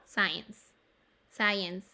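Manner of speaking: "Science" with the I said as English "eye"; pronunciation demo. Shown as a demonstration. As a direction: model "Science" with an "ai" vowel after the S. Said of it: "I, ¿cierto?". ("Science" pronunciando la I como "ai")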